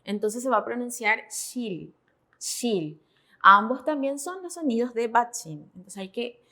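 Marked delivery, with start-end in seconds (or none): 1.3-3.0 "shil" with final L, not R; pronunciación modelo. Shown as a demonstration. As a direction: model "shil" twice, ending on a clear L. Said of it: "la L, no como la R". (pronunciar "shil" con L final, no R)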